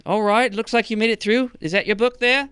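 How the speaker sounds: high-pitched skeleton gatekeeper; Pink the skeleton. Acted. Skeleton checks the returning party's book, high character voice. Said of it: "Pink the skeleton. And he says".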